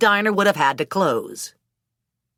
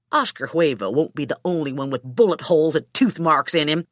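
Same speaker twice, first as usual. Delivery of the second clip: lightly voiced man ranting over his stolen dog; mildly worked-up, vengeful dog owner; indignant Hooker. Hooker vows to get his dog back, a touch of angry ranting. Hooker rants about dognapper.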